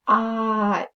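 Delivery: normal talking voice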